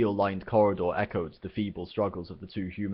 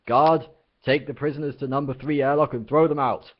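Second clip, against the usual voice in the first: loud, higher commanding order; captain's order; 7 semitones higher, 7 dB louder than usual. Acted. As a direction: bark the order across the bridge.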